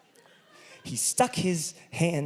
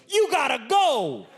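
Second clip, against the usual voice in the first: higher, slower, blunt command; curt order; 8 semitones higher than usual. Retold or imitated. Batman telling the fainted patient to leave, blunt.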